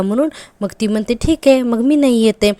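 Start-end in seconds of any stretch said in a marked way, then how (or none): 1.1-2.5 slow, higher and louder, a pouty mock refusal; teasing wife pretending to sulk at her husband; mock huffy anger. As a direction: play-act a sulky threat not to come, dragging it out. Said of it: "Tanvi अशी चिडते हां".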